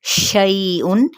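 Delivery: शैउन with the noon said clearly and slowly; clear izhar. Shown as a demonstration. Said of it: "यहाँ पे इजहार होगा".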